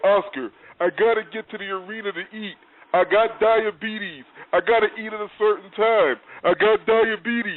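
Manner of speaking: slow, angry yelling. Recounting a man's reply after being asked what the matter was: retelling an angry yell. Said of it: "He got real mad and started yelling".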